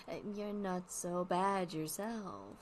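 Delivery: slow, soft deadpan quip; lightly voiced dry puppet comeback; deadpan Wally. Wally teasing the interviewer back, slow and deadpan. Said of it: "he's deadpan a lot".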